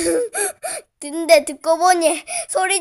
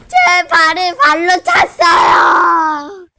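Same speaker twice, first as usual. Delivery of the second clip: crying while talking; 4 dB louder, slower than usual. Real, not acted. Crying about her kicked foot.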